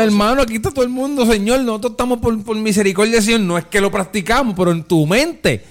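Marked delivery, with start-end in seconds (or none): 0.0-3.4 high, fervent plea to the Lord; fervent preaching. Acted. Brother preaching about mercy, high fervent plea. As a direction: lift it up like a preacher.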